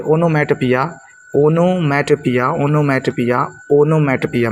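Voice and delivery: ओनोमैटोपिया repeated as "ono-mat-piya"; pronunciation drill. Shown as a demonstration. Teacher repeating so students avoid mistakes, ओनोमैटोपिया drilled with "piya". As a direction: repeat ओनोमैटोपिया carefully, each ending in "piya". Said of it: "मैं बार बार repeat कर रहा हूँ ताकि तुम गलती ना करो".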